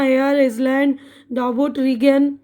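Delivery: "आइसलैंड" with S heard, "डॉबट" with B heard; wrong, as spelt. Shown as a demonstration. Teacher repeating the wrong readings, silent letters sounded. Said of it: "तो ये गलत है".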